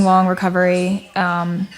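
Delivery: ordinary talk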